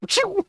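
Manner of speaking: imitated shot sound. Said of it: "and you're just like".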